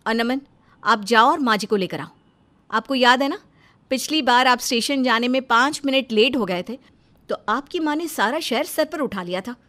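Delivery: loud, bossy instructions; firm orders. Acted. Wife orders maid and husband before mother-in-law arrives, loud and bossy.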